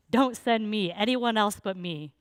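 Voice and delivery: mildly hammed-up pleading; desperate Moses. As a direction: beg your way out, imitating desperation. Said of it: "desperate Moses trying to get out of this".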